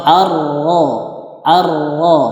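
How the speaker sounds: AR-RO with a held, rolled R and rounded "ro"; heavy ra. Shown as a demonstration. Teacher giving example of ra tasydid, heavy ra in AR-RO. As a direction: say "ar-ro" slowly with a thick doubled R. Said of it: "maka dia dibaca berat".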